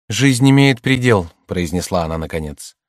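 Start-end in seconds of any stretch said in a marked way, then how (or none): 0.1-1.3 slow, higher and louder woman's voice; woman facing the prophecy of her death; resigned woman. A narrator's reading. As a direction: accept death with dignity.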